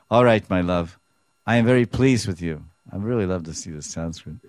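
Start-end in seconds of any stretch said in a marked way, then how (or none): 0.1-2.6 louder affectionate reassurance; loving Krishna. Acted. Krishna lovingly forgiving Radharani, louder. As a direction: reassure her grandly.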